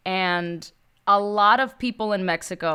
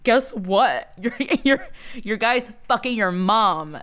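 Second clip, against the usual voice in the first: laughing gossip; 3 semitones higher, slower than usual. Retold or imitated. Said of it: "he's like".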